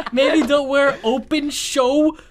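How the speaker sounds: slow, high, laugh-choked attempt; struggling through laughter. Real, not acted. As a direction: force the words out while cracking up. Retrying the line through laughter.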